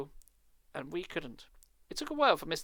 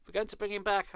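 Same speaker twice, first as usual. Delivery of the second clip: insistent, fearful; 6 semitones higher, 4 dB louder than usual. Acted. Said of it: "I said insistently ... with fear".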